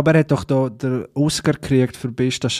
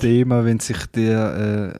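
ordinary talk

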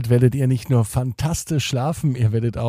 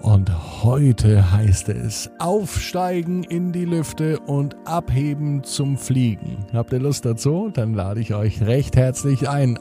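sleep story narrator. Acted. Bedtime podcast host intro.

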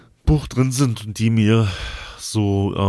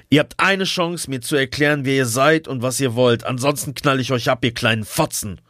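shouting; 4 semitones higher than usual. Acted. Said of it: "schrie er uns an".

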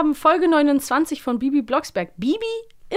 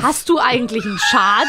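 mock outrage; 3 dB louder than usual.

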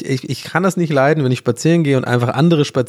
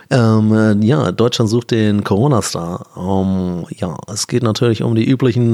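a bored host who is dragging the intro out; mock TV jury member welcoming a candidate, lower; casting director; 3 semitones lower than usual. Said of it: "Casting-Situation".

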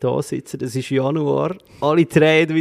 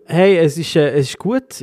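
aufgedreht vom Kaffee, lachend; zu viel Kaffee; 3 semitones higher, 5 dB louder than usual. Real, not acted. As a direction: zappelig und hibbelig. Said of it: "ich werde so ein bisschen gibbelig". (zu viel Koffein)

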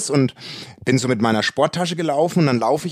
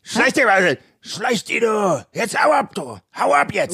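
retold yelling; 7 semitones higher than usual. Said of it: "geschrien, direkt. Also richtig losgebrüllt".

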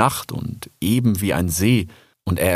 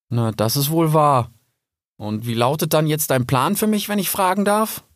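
put-on higher, bewildered young fox voice; young fox Rix; 7 semitones higher than usual. Rix answers Kipp. (verwirrter junger Fuchs, höher)

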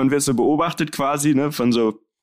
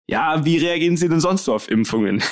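laughing through quote; 4 semitones higher than usual. Retold or imitated. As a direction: quote the doctor while chuckling. Quoting the doctor, laughing.

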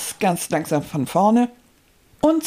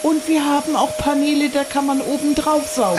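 hammy stage actor. Acted. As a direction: lay it on like theatre. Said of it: "theatralischen Einstieg".

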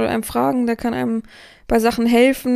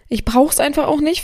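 ordinary delivery

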